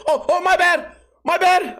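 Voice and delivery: put-on panic-apologize like a jittery kid; mock flustered kid. Kid in the comedian's way, very high flustered apology.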